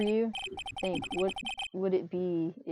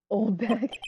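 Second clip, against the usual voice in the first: insult; 3 semitones higher, 5 dB louder than usual. Real, not acted. Insulting the security lady.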